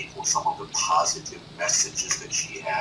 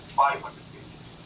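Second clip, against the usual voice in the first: usual speaking voice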